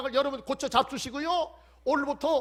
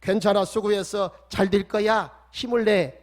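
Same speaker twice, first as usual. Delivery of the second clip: gentle encouragement; 2 semitones lower, 6 dB louder, slower than usual. Shown as a demonstration. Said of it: "따라서 합시다".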